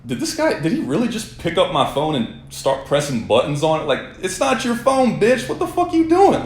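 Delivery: high, heated disbelief; outraged at the nerve of him; indignant. Retold or imitated. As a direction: pitch climbing into a rant. Inner rant about the mechanic.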